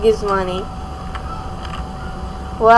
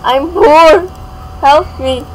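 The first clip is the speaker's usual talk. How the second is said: put-on pleading poor girl; 4 semitones higher, slower than usual. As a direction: announce your poverty like a play beggar. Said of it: "go in town and say".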